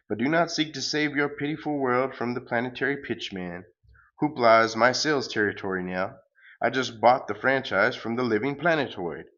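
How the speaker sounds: lightly booming villain pitch; cosmic salesman. Acted. Galacticus bragging about his franchise, light booming voice. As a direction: sell it like a grand space huckster.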